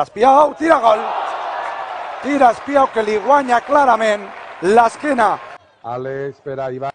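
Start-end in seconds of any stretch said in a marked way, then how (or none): 0.0-5.4 breakneck goal commentary. Real, not acted.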